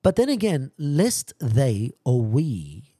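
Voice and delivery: sudden high, loud surge; preaching burst. Real, not acted. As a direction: lift the voice to rally the congregation.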